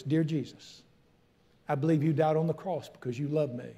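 prayer. Acted. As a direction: lead the prayer gently. Leads sinner's prayer.

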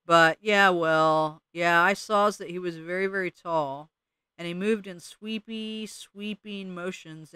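slow, dragging mole drawl, words stuck in soil. Acted. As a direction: let each word crawl out of the dirt. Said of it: "He talked slowly as if his words were stuck in soil".

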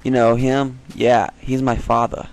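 badly faked British accent; terrible British accent. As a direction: claim kinship in a mock British accent. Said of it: "I have a terrible British accent".

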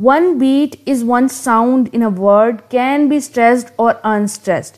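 reads the definition word by word, very slowly; slow dictation. Acted. Teacher dictating a definition of meter to students, very slow. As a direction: spell it out slowly so students can write it down.

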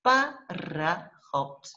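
"пароход" in three slow beats, "па-ра-ход"; syllable by syllable. Shown as a demonstration. Teacher gives first word to separate, syllable by syllable. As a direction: pull "пароход" apart into its syllables. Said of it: "we're going to separate in syllables".

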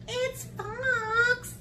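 high little mouse voice; cheery mouse. Acted. Mouse telling Gruffalo who hooted, high and light. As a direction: chirp it in a squeaky voice.

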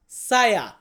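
সায়া said slowly as sa-ya, the Malay word for I; teacher tells Bangladeshi workers how to say সায়া, clearly sounded out. Shown as a demonstration. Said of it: "মালয়েশিয়াতে কি বলি".

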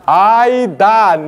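爱蛋 stretched into two slow syllables; slow, deliberate sounding-out of 爱蛋; English-annotated reading. Shown as a demonstration. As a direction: draw out 爱蛋 as the sign spells it. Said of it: "你若袂晓念，伊搁甲你注英语伫遮有无".

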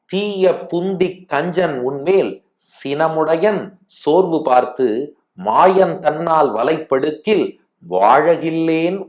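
slow, measured recital, phrase by phrase; verse recitation. Acted. Teacher reciting the fifth pasuram to listeners, slow devotional recitation. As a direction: draw out each phrase of the sacred verse with pauses.

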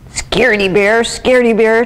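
light sing-song taunt; teasing. A narrator's reading. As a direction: needle your sister playfully. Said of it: "teased Brother".

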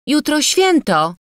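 high, slow, drawn-out reminder; timid reminder. A narrator's reading. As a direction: pipe up shyly but audibly, pitched well up. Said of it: "przypomniała nieśmiało". (nieśmiałe przypomnienie wysokim głosem)

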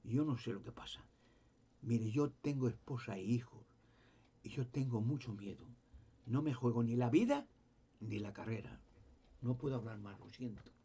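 a frightened man backing out of the talk; trembling, stammering. Retold or imitated. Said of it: "estaba temblando, balbuceaba".

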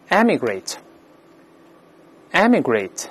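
slow, careful word reading for learners; model pronunciation. Shown as a demonstration. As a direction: say it slowly, spacing out each repetition. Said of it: "我们再读一下这个词".

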